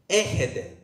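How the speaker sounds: "Έχετε" said singly in Cypriot Greek, falling at the end; original Cypriot pronunciation. Shown as a demonstration. Preacher teaching congregation Greek, "Έχετε" in Cypriot pronunciation. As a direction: model "Έχετε" for learners to repeat. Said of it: "the way it should be read".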